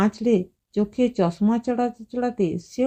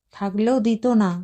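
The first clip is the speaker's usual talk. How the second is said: dry, lightly mocking retort; mild sarcasm. A narrator's reading. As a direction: let a touch of scorn show. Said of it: "মিতালির গলায় বিদ্রুপ ফুটল".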